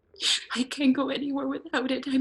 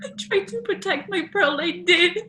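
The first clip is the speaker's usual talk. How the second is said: higher and louder, building to a wail; desperate rising insistence; rising anguished cry; 6 semitones higher, 11 dB louder than usual. Acted. Ghost girl insisting in distress.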